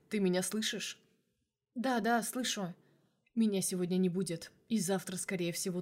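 plain reading voice

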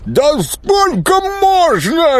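high, slow wail for help; wailing swamp creature. Acted. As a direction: cry out high and drawn out for rescue. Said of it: "и тот заголосил".

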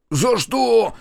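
high, loud indignant squawk. A narrator's reading. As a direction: protest loudly, voice shooting right up. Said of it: "возмутился он". (возмущённый высокий выкрик)

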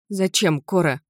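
understated anguished question; plead, voice about to break. Acted. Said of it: "Голос у меня сорвался". (срывающимся голосом)

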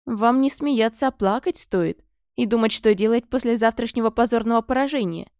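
mock her with a sneer; sarcastic proclamation. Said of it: "язвительно провозгласила".

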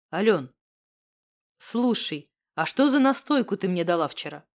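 a hint of a nervous guy asking his friend; Misha. A narrator's reading. Misha voiced low by narrator.

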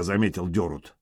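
ordinary delivery, nothing marked

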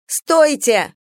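loud high shout of Stop; girl shouting across the pier to stop them; calling out. Acted. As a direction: yell to halt them from a distance. Venka running up, calling out.

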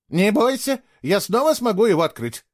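put-on high, confident girl's voice; reassuring. A narrator's reading. Girl promising to reopen the portal, reassuring. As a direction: assure him it can be fixed. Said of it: "уверила она Фло".

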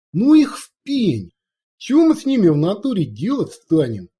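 a rowdy orc warrior, lightly voiced, pleading his petition; loud orc warrior. Orc warrior explains the petition to his chief, rowdy and loud.

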